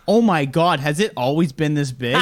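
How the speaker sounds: loud, laughing mock gasp of shock; shocked exclaim. Doctor gawking at the patient's swelling, laughing surprise. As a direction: play the stunned doctor, half laughing.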